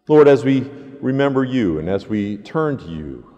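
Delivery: earnest, steady spoken prayer. Acted. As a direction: lead the people in prayer. Pastor leads congregation in prayer.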